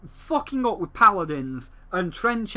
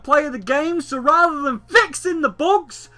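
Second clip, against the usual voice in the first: incredulous; 9 semitones higher, 6 dB louder than usual. Real, not acted. Rising incredulous rant.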